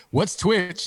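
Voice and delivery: put-on old lady voice. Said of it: "in my old lady voice".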